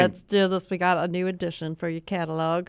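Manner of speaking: lightly voiced author pitch; a hint of a proud author. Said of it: "I like that voice".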